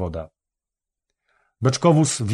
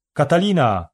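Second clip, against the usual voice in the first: higher call of a name, long falling glide; 5 semitones higher, 3 dB louder than usual. A narrator's reading. Someone calls the girl from the house by the synagogue, calling out. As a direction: call out for someone, mildly raised voice. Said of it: "zawołał ktoś".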